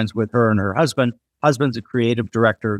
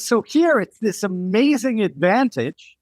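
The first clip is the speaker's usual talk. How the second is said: lightly voiced Brit, mostly higher; British designer; 7 semitones higher than usual. British designer weighing her accent here and back home, lightly imitated. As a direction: retell her contrast in a raised voice. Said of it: "And she goes".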